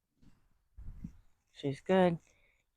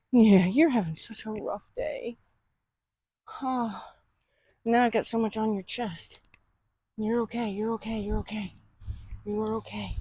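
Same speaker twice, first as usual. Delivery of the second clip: soothing pet talk; 3 semitones higher than usual. Real, not acted. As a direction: gently reassure a rattled horse. Soothing upset horse while spraying.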